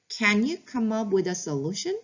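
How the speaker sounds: slow it right down like a teacher modeling a phrase; very slow demo phrase. Shown as a demonstration. Teacher modeling a calm reply to a complaining child, very slow. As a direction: spell out each word very slowly for the learner. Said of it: "이렇게 얘기해 보는 건 어떨까요?".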